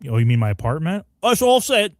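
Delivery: high, loud put-on British accent; mock British accent. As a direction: lampoon a posh British flat-owner in a British accent. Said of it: "British with their dumb names".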